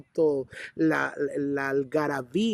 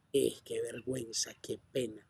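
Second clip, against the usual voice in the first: softer, lower tut-tutting under the breath; embarrassed murmur; 6 semitones lower, 10 dB quieter than usual. Retold or imitated. People muttering about the beggar's shouting, much softer. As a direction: mutter it as if ashamed for him. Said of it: "hay mucha gente así".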